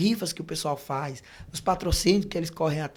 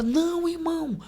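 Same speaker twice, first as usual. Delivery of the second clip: lightly voiced, high-pitched protest; insistent church sister; 5 semitones higher than usual. Church sister urging the preacher to dinner, insistent. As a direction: stretch out a higher-pitched, coaxing refusal.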